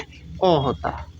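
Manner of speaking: अ drawn out slowly as a short a sound; slow, careful model pronunciation; demonstrating the sound. Shown as a demonstration. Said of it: "क्या होता है?".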